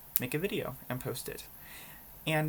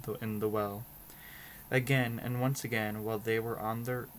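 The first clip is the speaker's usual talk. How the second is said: story narration. A narrator's reading. Reader tells viewers a Brothers Grimm story, measured storybook narration. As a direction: read it out as an unhurried storybook. Reads fairy tale aloud.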